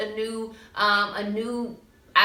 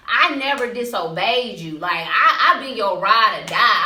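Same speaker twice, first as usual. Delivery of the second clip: louder, mock-indignant big-brother protest; indignant complaint; 7 dB louder than usual. Older brother protesting to his father, mock indignant and louder. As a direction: protest like the overlooked good child. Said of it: "he's like".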